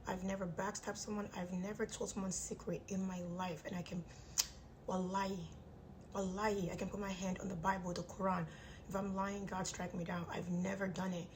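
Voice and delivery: talking through clenched teeth; jaw wired shut. Real, not acted. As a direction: speak with teeth wired together. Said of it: "My jaw is wired shut".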